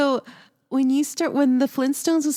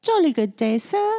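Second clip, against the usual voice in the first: mock Cockney; 4 semitones higher than usual. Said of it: "has a Cockney accent".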